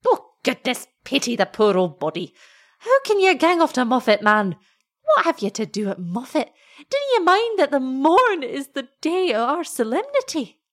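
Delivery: high, wailing Scots remonstrance; dismayed old wife. A narrator's reading. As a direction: swoop up in worried reproach.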